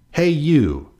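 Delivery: loud, high challenging call; grouchy call. A narrator's reading. Grouchy ladybug challenges an animal.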